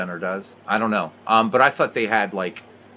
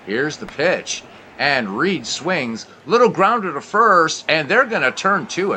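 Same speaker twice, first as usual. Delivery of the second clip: play-by-play. Acted. Play-by-play commentary continues.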